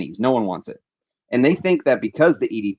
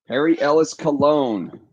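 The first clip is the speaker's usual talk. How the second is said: slow, higher triumphant naming; found it; 5 semitones higher, 3 dB louder than usual. Real, not acted. Finally finding the lost bottle, he names it triumphantly. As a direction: savour the name once it turns up.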